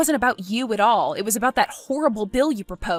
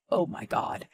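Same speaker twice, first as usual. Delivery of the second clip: shocked whisper; 4 semitones lower, 7 dB quieter than usual. Acted. Hearing Miguel got fired.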